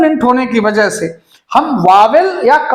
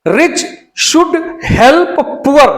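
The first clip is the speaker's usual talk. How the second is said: very slow, word by word; slow, deliberate reading; slow dictation; much slower than usual. Shown as a demonstration. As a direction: dictate the faulty sentence. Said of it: "यहाँ rich का मतलब".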